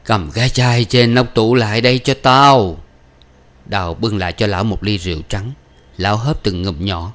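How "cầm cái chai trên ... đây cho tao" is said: mildly tired, grumbling order; lightly acted weariness; weary voice. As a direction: give the order with a touch of fatigue. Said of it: "bằng một giọng mệt nhọc".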